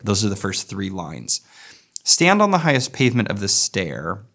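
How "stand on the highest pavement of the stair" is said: scanned in even iambs, "on" lightly lifted; iambic stress. Shown as a demonstration. Lecturer scanning the line for iambic pentameter, beat marked. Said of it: "is pretty much iambic pentameter".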